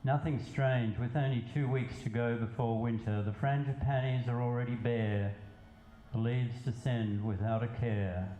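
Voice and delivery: measured poetry reading with pauses between lines; spoken verse, evenly paced; poem recitation. Acted. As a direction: recite it line by line, letting each phrase land. Resumes poem after aside.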